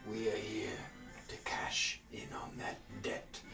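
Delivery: booming, furious giant preaching; fire giant voice. Acted. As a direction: roar it like an angry giant. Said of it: "You hear the fire giant's voice".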